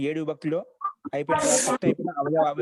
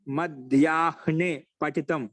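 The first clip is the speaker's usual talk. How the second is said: slow recitation; much slower than usual. Shown as a demonstration. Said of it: "teacher recites Sanskrit example".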